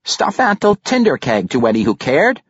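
halfling warrior. A narrator's reading. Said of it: "the halfling replied".

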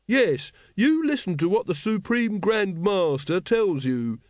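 high, slow, emphatic telling-off; officious scolding. A narrator's reading. Brother Watchtower rebukes the errant brother, officious. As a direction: back the leader up with righteous reproach.

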